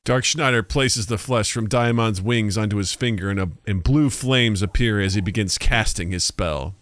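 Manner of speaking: measured, even narrator; story narration. A narrator's reading. Narrator describes the sorcerer casting his spell, measured. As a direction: read the action out evenly.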